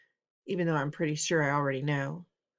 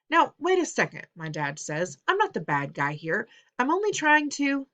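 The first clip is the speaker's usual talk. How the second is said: defensive father; 6 semitones higher, 4 dB louder than usual. Acted.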